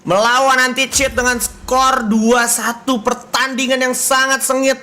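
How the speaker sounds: slow, proclaimed match summary; esports winner announcement. Real, not acted. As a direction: proudly announce the victors, drawing words out. (pengumuman pemenang yang lantang dan perlahan)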